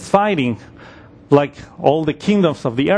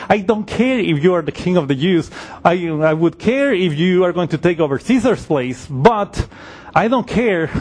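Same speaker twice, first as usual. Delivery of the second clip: a governor fed up with the question; exasperated Pilate. Retold or imitated. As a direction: Pilate scoffing in mild exasperation. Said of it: "maybe a little exasperated".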